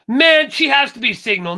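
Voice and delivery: real annoyance, loud; annoyed. Real, not acted. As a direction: let the irritation boil over. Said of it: "I'm thoroughly annoyed now".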